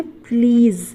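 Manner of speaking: "प्लीज़" ending in a buzzing z; correct z ending. Shown as a demonstration. Teacher modelling the word for learners, "प्लीज़" with a clear final z. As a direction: say "प्लीज़" clearly, with z, not j, at the end. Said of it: "आपको क्या बोलना है?".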